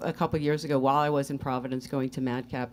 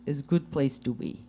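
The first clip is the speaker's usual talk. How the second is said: put-on Russian accent. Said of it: "do a Russian accent".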